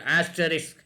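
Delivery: asterisk ending in S-K, "as-tuh-risk"; correct asterisk. Shown as a demonstration. Teacher giving an example word to learners, asterisk ending in "-sk". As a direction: say asterisk with a clear final "-isk". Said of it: "it is called asterisk".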